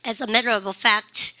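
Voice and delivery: As a matter of fact spoken slowly, stress on matter; slow model phrase. Shown as a demonstration. Teacher modeling the phrase slowly for the class. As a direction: say it slowly so they can follow. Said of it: "사실은".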